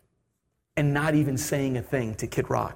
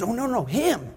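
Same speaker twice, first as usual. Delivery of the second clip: imitated stewardess; 5 semitones higher than usual. Stewardess corrects him.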